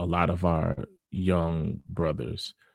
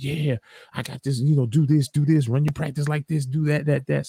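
coach giving advice; 9 semitones higher than usual. Retold or imitated. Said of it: "He was like".

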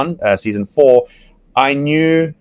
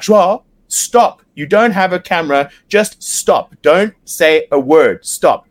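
urgent crew member; 4 semitones higher, slower than usual. Retold or imitated. Production crew voiced urgently.

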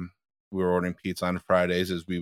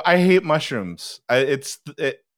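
higher-pitched nervous honesty, lightly acted; adrenaline-rush confession; 3 semitones higher than usual. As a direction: retell a confession blurted on adrenaline. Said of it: "you feel that honesty rush, that adrenaline rush".

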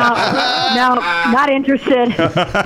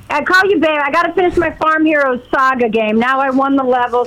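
too loud on phone; 3 semitones higher than usual. Real, not acted. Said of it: "all of our ears are bleeding".

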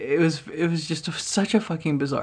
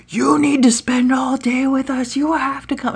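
much higher, louder demand; insistent drunk girl; 10 semitones higher, 5 dB louder than usual. Retold or imitated. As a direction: insist like a smitten party girl. Girl insisting driver join.

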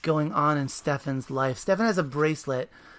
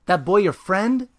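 loud, higher accusing yell; yelling accusation; 5 semitones higher, 9 dB louder than usual. Acted. Super yelling at the boys from the fire escape, accusing. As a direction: bark the question down from above. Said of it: "then he yells at us".

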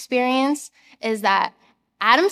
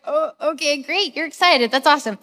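mock enthusiasm; 3 semitones higher than usual. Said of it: "the last emotion that I'm feeling".

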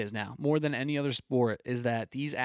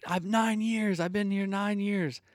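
retold scream; 7 semitones higher, slower than usual. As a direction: mimic a drawn-out scream without the volume. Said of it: "screaming, like".

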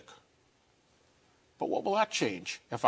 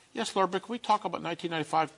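higher, rushed pleading comeback; impatient objection; 5 semitones higher, faster than usual. Acted. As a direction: hurry past the question, pitched up. Impatiently arguing back at God.

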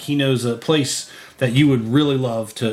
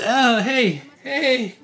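high, cackling goblin jeering at the elf; nasty little goblin mocking a customer, high and laughing; 8 semitones higher than usual. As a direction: squeak out the taunts through laughter. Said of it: "he says".

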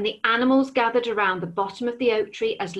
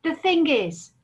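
higher, hesitant hedgehog; timid hedgehog; 7 semitones higher than usual. Acted. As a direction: speak up nervously to the dragon. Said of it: "said Hedgehog timidly".

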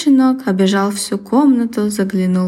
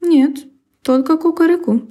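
rooster voice; 7 semitones higher than usual. Acted. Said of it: "сказал петух".

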